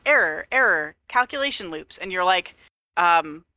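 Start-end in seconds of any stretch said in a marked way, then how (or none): 0.1-2.0 stuck robot voice repeating errors; glitching robot. Retold or imitated. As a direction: play a malfunctioning AI. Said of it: "she's like".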